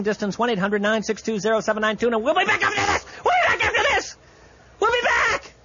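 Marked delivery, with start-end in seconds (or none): 2.1-5.5 shouted sign-off. Acted. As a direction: belt it out like a radio bumper. Host shouting into the break.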